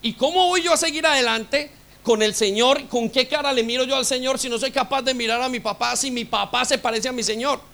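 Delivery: ordinary talk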